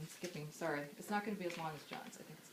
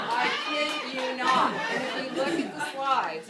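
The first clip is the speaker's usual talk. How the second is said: louder and higher, still laughing; laughing while talking; 6 semitones higher, 11 dB louder than usual. Real, not acted. Speaker to mourners, laughing as she insists it's true. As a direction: talk through the laughter. Laughing through matching outfits story.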